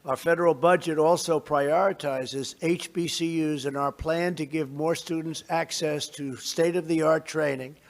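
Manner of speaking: measured, formal address to a crowd; podium speech. Real, not acted. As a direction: deliver it like prepared remarks.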